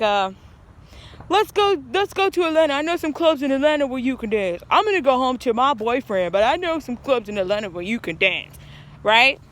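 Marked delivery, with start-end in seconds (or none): 1.3-8.6 friend excited. Retold or imitated. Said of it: "She was like".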